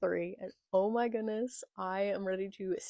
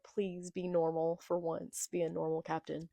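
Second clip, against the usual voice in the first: mock despair; 3 semitones lower, 6 dB quieter than usual. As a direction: plead quietly as a despairing crew, lightly acted. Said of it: "they're all despairing".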